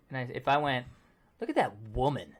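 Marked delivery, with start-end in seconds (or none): 1.4-2.4 "Look at that woman" said low and suggestive, leering; lecherous, lower tone. Shown as a demonstration. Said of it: "the inflection really makes it like".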